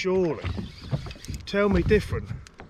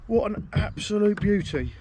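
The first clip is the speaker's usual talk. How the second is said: awestruck delight; 4 semitones higher than usual. Real, not acted. Admiring the fish.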